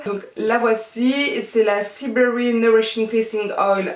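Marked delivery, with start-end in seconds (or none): 1.4-3.9 self-mocking English accent. Real, not acted. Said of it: "avec mon superbe accent anglais".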